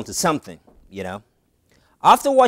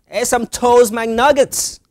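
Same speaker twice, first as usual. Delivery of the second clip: higher, louder pretend dog, drawn out; lightly voiced dog placing an order, loudly; dog ordering food; 8 semitones higher, 5 dB louder, slower than usual. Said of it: "the dog was like".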